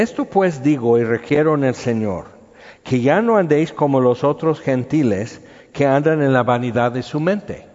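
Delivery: measured, solemn Bible reading; scripture reading. Acted. Pastor reading Hebrews to the congregation, solemn reading voice. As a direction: read the verses like from the pulpit. Pastor reads Ephesians aloud.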